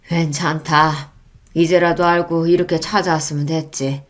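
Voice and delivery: forgive her kindly; gentle forgiveness. Acted. Father-in-law forgives. (너그럽게 용서하는 시아버지)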